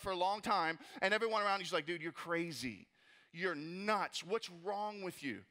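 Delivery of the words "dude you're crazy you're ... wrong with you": tag. Acted. Voicing doubters of a new business.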